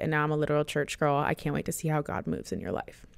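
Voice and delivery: quick, evenly read-out message; message read aloud. Acted. Reads follower's message aloud.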